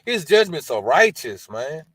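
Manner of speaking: awed praise. Retold or imitated. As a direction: blurt out praise in wonder. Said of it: "I said".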